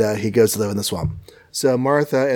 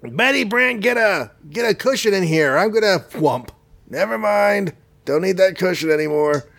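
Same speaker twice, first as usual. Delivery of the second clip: tA; 6 semitones higher than usual. Acted. Jonah shouts for his secretary.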